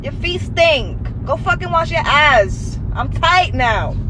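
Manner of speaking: disgusted inner voice. Retold or imitated. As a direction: recoil in disgust at the ex. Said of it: "it's like".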